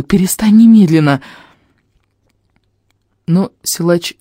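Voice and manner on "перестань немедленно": raised, loud urgent order; shouted command. A narrator's reading. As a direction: cry out to stop the beating. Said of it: "крик Лайлы".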